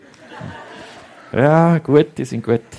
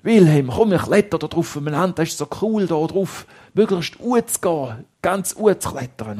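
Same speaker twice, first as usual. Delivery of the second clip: eager call. Acted. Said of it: "Der Antoine sagt".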